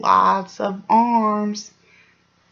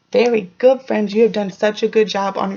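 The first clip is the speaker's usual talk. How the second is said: excited praise; 5 dB louder than usual. Real, not acted. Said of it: "praising the class".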